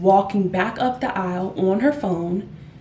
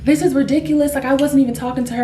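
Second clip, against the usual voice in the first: raised-pitch retold protest; still upset; 5 semitones higher, 4 dB louder, faster than usual. Other lady complaining after the quarrel, still upset. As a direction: imitate an indignant complaint, starting high and louder, then rushing. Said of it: "is now still upset".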